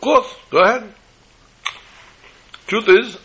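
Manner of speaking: happily agree, voice lifted up; eager jovial official. Retold or imitated.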